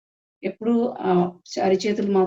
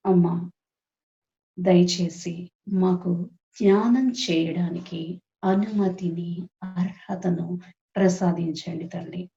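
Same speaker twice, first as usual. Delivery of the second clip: slow, measured prayer with pauses between phrases; guided prayer; slower than usual. Acted. Meditation leader asking the Mother's permission to meditate, prayerful. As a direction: lead the group in unhurried supplication.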